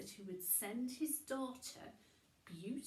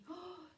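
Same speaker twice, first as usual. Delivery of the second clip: shocked gasp; 8 semitones higher, 7 dB quieter than usual. Acted. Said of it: "she almost fainted".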